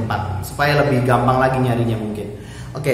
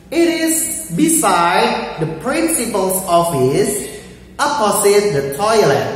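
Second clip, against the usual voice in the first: higher, slow lady teacher voice; man doing a woman's voice; 5 semitones higher than usual. Acted. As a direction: voice a grown woman answering, pitched up. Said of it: "itu niru suara ibu-ibu agak susah".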